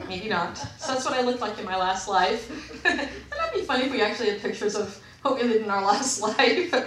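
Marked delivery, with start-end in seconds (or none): 2.8-6.7 laughing. Real, not acted. Joking about past lives.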